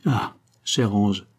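slow, tender endearment; lovestruck, lingering sigh of words; sentimental murmur. A narrator's reading. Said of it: "murmura Roland d'un ton sentimental".

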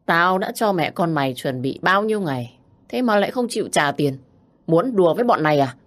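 warning. Acted. Thug warning daughter, mild menace. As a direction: lean in and threaten. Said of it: "cảnh cáo".

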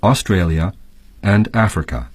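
clear, measured textbook reading; reading the text. Acted. Teacher reads the lesson text aloud to students, clear and measured. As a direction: read the passage to the class.

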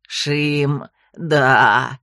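low, gurgling frog voice in delight; delighted frog gurgle. A narrator's reading. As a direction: gurgle happily like a big toad. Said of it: "восторженно забулькала горлом".

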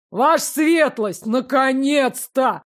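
slow, relieved cry of welcome; drawn out with relief at last. Acted. Steward greets the princess with open relief. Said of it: "С нескрываемым облегчением в голосе".

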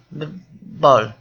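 frightened, almost whimpering stammer; fearful stammer. A narrator's reading. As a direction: stutter on the first sound, then blurt it out loudly. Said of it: "dadogta Mark félelmébe, szinte szűkölve". (félénk, szűkölő dadogás)

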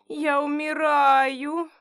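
hammed-up dying whine; drawn-out wail. A narrator's reading. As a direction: stretch it out like a dramatic moan. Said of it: "протяжно подвывала я".

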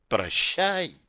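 soft, fading whisper into the ear; whispered farewell. A narrator's reading. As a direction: breathe the farewell close and cold. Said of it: "прошептала на ухо Арила".

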